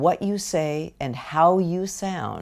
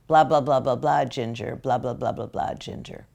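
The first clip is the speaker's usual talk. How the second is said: lightly imitated droning owner; meaningless blah-blah; 3 semitones lower than usual. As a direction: rattle off blahs as empty noise. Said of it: "it shows what the dog, Ginger, hears".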